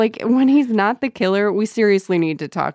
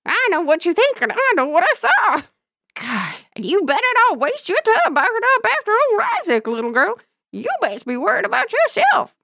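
put-on menacing old-timer warning a girl; cackly wheezy old timer; 13 semitones higher than usual. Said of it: "Took me a while to hit that old prospector voice".

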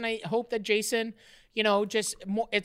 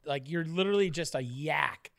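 whispered under the breath; muttered jab; 7 semitones lower, 7 dB quieter than usual. Real, not acted. Cohost teasing the snacker, whispered jab. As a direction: mutter the insult aside.

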